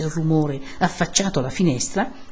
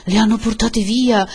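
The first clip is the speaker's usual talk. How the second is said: raised, higher-pitched alarm; alarmed cry; 5 semitones higher, 5 dB louder than usual. A narrator's reading. Villagers find the women gone, alarmed cry. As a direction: announce a dreadful discovery aloud.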